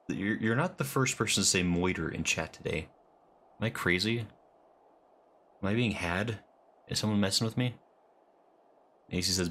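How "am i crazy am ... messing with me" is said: very slow, stretched 'Am I being had?'; drawn-out suspicion. Real, not acted. Streamer wondering if chat is pranking him, slow and stretched. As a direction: drag it out, mock paranoid. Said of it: "mock paranoia".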